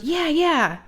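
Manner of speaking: high-pitched, eager daughter impression; imitated eager agreement. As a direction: act out a kid keen on the plan. Daughter eagerly joins the prank.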